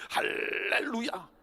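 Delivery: slow, stretched hallelujah; drawn-out hallelujah. Real, not acted. Preacher closing with a slow, stretched-out hallelujah. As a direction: draw it out like a preacher's praise.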